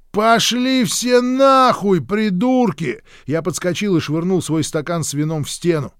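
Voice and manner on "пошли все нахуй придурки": high, slow, loud yell; furious outburst. A narrator's reading. Hank blows up at everyone, yelling high and slow. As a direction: roar it out, stretching the words.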